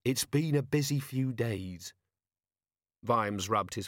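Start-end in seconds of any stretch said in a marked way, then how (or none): 0.0-1.9 slow, soothing reassurance; gentle. A narrator's reading. Carrot calming his tired boss, gentle. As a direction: say it slowly and kindly. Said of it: "he said gently".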